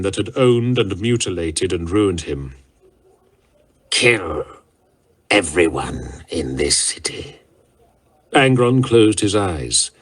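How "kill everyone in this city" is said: deadly whisper. A narrator's reading. Warlord whispering the order to kill the city. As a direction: whisper the death sentence.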